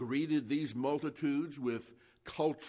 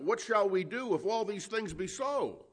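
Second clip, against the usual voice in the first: higher, imploring cry; 7 semitones higher, 3 dB louder than usual. Retold or imitated. Soldiers ask John the Baptist for direction, crying out in imitation. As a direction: cry the question out in a raised pitch. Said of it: "even soldiers cried out".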